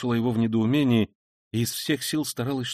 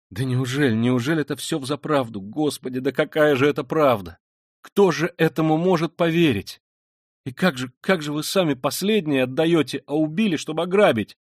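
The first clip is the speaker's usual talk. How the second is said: louder, higher, rising alarm; can't believe what she hears; shocked disbelief; 5 semitones higher, 6 dB louder than usual. A narrator's reading. Sonya disbelieves the confession.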